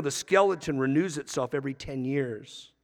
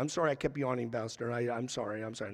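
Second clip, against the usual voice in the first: low, quiet imitation of a sheepish confession; softly imitated, repeated apology; retold apology; 6 semitones lower, 10 dB quieter, faster than usual. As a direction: mumble the apology lightly, as someone else's words. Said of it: "I had a lady kept confessing".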